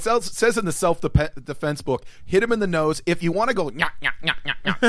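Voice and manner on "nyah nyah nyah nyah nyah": teasing nyah-nyah taunt; sing-song taunting. Retold or imitated. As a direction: taunt like a Stooge. Mock Stooge taunt.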